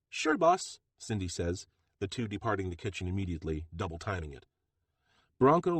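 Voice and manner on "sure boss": high, louder female voice; bright and quick to obey; Cindy's voice. Acted. Cindy answering Bronco's order, high and eager.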